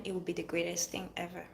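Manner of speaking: ordinary delivery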